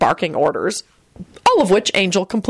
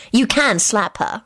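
amiable; 4 semitones higher, slower than usual. A narrator's reading. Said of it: "Solange told him amiably".

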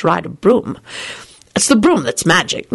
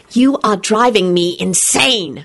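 hissing; 3 semitones higher, slower than usual. Acted. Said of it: "she hissed".

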